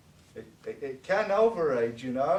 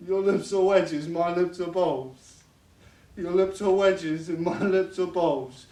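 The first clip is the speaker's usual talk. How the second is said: put-on insistent drunken taunt; 2 semitones higher, 6 dB louder than usual. Father repeats insult, louder.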